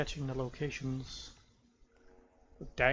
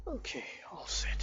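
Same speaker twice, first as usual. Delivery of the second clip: whispering; 4 semitones higher than usual. Real, not acted. Muttering while playing.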